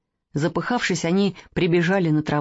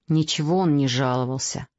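sullen; 4 semitones lower than usual. Acted. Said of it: "хмуро сказал".

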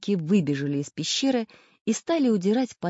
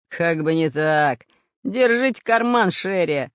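slow, louder mocking pirate jeer; guffawing pirate; 5 dB louder than usual. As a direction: sneer it out with a rough laugh. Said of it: "загоготал пират Бульбуль".

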